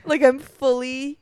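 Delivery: punchy Jersey Shore talk; Jersey Shore accent. Pretend. Fan who can't stop watching the show, Jersey accent. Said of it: "I can't stop talking like I'm in Jersey Shore".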